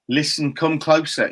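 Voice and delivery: slow, lightly voiced comic showman; a hint of the old comedian, drawn out; Jimmy Cricket impression. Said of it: "That was my Jimmy Cricket impression".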